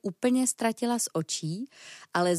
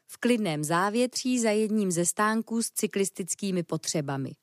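ordinary delivery

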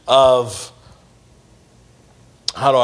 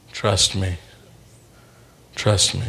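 low, soft and tender; hushed; 8 semitones lower, 7 dB quieter than usual. Retold or imitated. Relaying God's word to a crying stranger, low and hushed. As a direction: say it gently like a quiet promise.

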